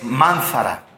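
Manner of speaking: "mánzara" said slowly, stress on MÁN; Hebrew word. Shown as a demonstration. Preacher teaching the Hebrew word for curse, slowly. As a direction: lay out "mánzara" slowly, leaning on the first syllable. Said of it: "Y la palabra maldición".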